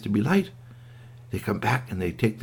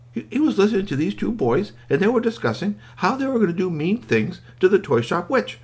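higher, troubled storytelling; upset narration; 10 semitones higher than usual. A narrator's reading. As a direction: narrate with rising concern. Telling of toy's growing upset.

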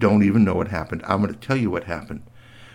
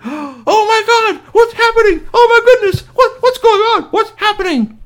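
shocked witch; 8 dB louder than usual. Acted. Witch shocked by toys alive.

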